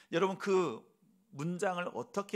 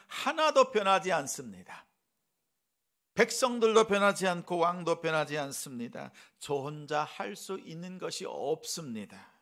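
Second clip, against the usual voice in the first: pouring out grief; 5 dB louder than usual. Acted. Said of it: "울분을 토하면서".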